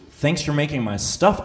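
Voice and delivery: slow disbelieving repeat of "stuff"; incredulous. Real, not acted. Comedian echoing the cop's words back to the audience, slow and incredulous. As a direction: drag out "Thanks for making my stuff?" in disbelief, rising on "stuff".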